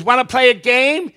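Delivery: high, loud acted greeting; forward elderly woman. Elderly woman approaching a gentleman, high loud greeting. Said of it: "She goes".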